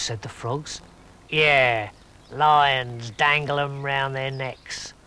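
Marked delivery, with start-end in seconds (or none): 1.3-4.9 low, slow know-it-all toad; old toad voice. Acted. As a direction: drawl it like a smug old toad. Mary the toad voice.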